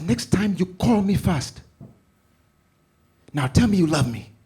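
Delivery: slow, high, loud mother's order; high loud command turning to laugh; firm mom. Retold or imitated. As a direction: spell it out slowly, loud. Mom laying down a rule.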